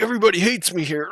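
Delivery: retold upset complaint. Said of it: "He's like".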